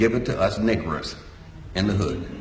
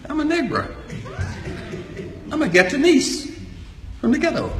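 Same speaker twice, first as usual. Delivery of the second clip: laughing. Real, not acted. Jokes about ghetto origins, laughing.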